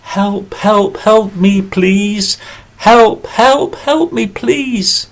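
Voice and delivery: high, small pleading bee voice; bee crying for help. Acted. Trapped bee under the glass begging for help, high and pleading. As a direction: squeak out a desperate plea from under the glass. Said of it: "The bee called".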